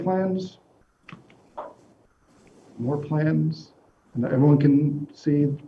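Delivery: muffled behind a face mask; talking with a mask on; through face mask. Real, not acted. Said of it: "can you hear me with the mask on?".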